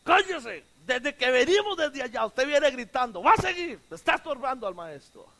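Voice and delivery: mildly scolding imitation; annoyed shushing bystander. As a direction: tell off the noisy man, lightly acted. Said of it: "se le ocurre y le dice".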